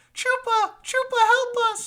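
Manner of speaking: shrill chorus of very high, loud voices. Everyone calls out to chupa for help, in high-pitched voices. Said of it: "they all sound pretty high pitched".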